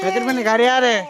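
lifted parting call to a little one; soothing call. Real, not acted. Calls comfort to crying child.

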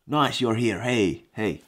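usual speaking voice

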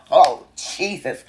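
slow breathy whisper under the breath; whispered aside. Real, not acted. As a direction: mutter it to yourself in disbelief. Aside after shocking realization.

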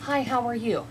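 calm submissive hello. Retold or imitated. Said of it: "greet other people calm and submissively".

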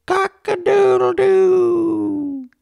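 long, high, slow cock-a-doodle-doo; rooster crowing. A narrator's reading. Rooster greeting the sun to wake the farmer, crowing. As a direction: crow it out like a rooster at sunrise. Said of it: "the rooster crowed".

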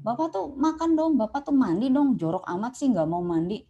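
mock scolding of an old father; nagging him to eat and bathe. Caregiver scolding father to eat and bathe, mildly angry. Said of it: "kita marah".

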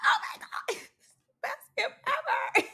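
very high, breaking into laughter; mock delight. Reactor faking joy at the fireworks gift, squeaky mock delight. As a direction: squeal it sarcastically, then laugh.

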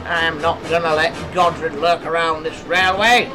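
loud, defiant roar; angry roar. A narrator's reading. Mister Borain refusing the lurking ghost, roaring angrily. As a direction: bellow it with indignation. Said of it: "roared Mister Borain".

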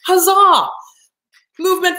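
high, loud celebratory cry; triumphant cheer. Shown as a demonstration. Coach celebrating three small wins, triumphant cheer.

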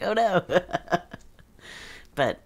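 ordinary talk, nothing marked

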